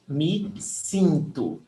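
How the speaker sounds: "sinto" with i in place of e; vowel change demo. Shown as a demonstration. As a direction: model "sinto" with a clear nasal i. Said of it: "We change the E for the I".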